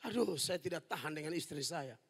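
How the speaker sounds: low, soft weary complaint; weary husband. Retold or imitated. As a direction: sigh it out like a worn-out husband. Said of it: "saya tanya, "Kenapa selingkuh, Pak?".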